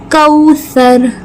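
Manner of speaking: कौसर with the औ stretched one alif long; drawn-out vowel. Shown as a demonstration. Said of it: "वाव लीन एक अलिफ के बराबर खींचेंगे". (कौसर में वाव लीन खींचकर)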